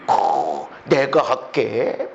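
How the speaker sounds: lightly voiced con man, low and slow; drawn-out, low offer of help from a swindler; obliging swindler. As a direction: lightly play an over-helpful con man, dragging the words. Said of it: "사기꾼은요, 엄청 잘해요".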